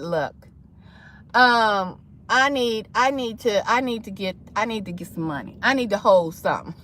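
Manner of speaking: low, soft, halting request; hesitant money ask. Acted. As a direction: ask for a loan, quietly and haltingly. Acting out asking for money.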